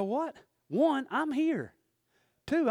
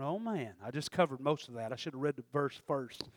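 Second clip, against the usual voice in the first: mock dismay; 8 semitones lower, 9 dB quieter than usual. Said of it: "you'd be sitting there going".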